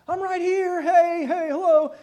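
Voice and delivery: put-on a small girl giggling that she's right there; little girl. Little girl calling to family who pretend not to see her, high and playful. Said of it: "she's kinda like".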